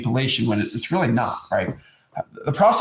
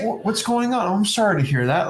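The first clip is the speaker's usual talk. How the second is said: caring grandson; 5 semitones higher than usual. Retold or imitated. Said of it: "You're gonna say".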